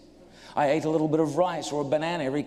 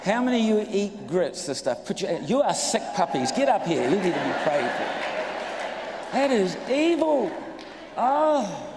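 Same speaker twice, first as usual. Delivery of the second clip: much higher and louder, hammed-up revulsion at the food; mock disgust; 6 semitones higher, 3 dB louder than usual. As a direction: play up the horror at grits for laughs.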